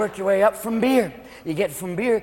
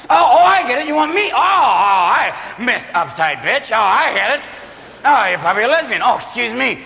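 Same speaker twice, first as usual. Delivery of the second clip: put-on sarcastic drunk; 2 semitones higher than usual. Drunk man responds to rejection.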